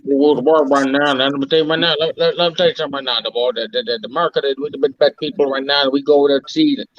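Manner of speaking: lightly put-on Southern drawl, rambling; a hint of Texan drawl, half joking; mock Southern drawl. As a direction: ham up a good ol' boy Southern accent. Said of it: "we gotta speak in deep Southern drawl".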